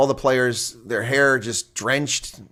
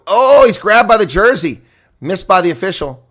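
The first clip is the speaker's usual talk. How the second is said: higher, louder shout at the missed foul; excited outburst; 7 semitones higher, 9 dB louder than usual. Real, not acted. Streamer reacts to a missed foul, excited outcry. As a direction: cry out at the jersey grab. Jersey grab missed, outrage.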